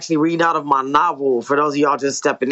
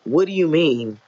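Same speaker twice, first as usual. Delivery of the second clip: story narration. A narrator's reading. Author reading own novel to listeners, measured story narration. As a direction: read it as an author narrating dialogue and action.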